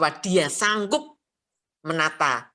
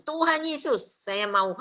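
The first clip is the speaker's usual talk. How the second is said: crying out in prayer. Retold or imitated. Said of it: "cepat-cepat saya berseru".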